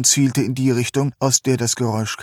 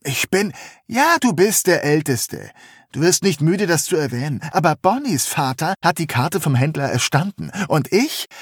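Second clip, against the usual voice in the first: höher, trotzig und beleidigt; trotziger junger Mann; 5 semitones higher than usual. Acted. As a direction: wie ein gekränkter Jüngster. Drayton trotzig. (trotziger junger Mann)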